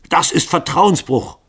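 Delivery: loud, high, slow outburst of anger; wrathful, drawn-out accusation; angry shout. A narrator's reading. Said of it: "rief Lycoville zornig".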